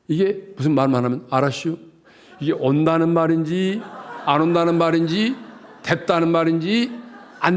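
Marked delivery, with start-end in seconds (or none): 1.3-1.8 Chungcheong drawl. Retold or imitated. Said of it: "충청도 산은".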